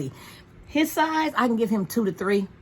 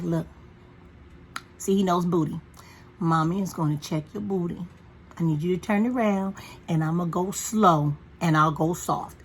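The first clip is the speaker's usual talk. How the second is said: soothing to dog; 3 semitones lower than usual. Retold or imitated. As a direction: talk him through it gently. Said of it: "I was like".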